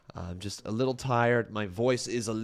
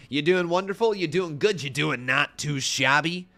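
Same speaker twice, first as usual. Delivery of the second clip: playful greeting; 5 semitones higher, 5 dB louder than usual. Acted. Greeting chat donor playfully.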